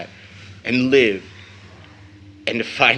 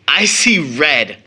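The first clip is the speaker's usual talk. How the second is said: louder, slow burst of rage; a son's fury rising into a loud line; angry outburst; 6 dB louder, slower than usual. Acted. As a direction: let the anger break out on red. Son's rage at white killers.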